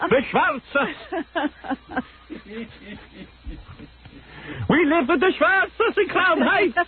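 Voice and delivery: high, slow mock Brooklyn accent; imitating a Brooklyn Hasid. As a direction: play the Crown Heights guy.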